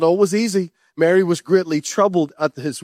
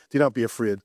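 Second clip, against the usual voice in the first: gentle angel; 7 semitones lower, 4 dB quieter than usual. Acted. Angel's words quoted low.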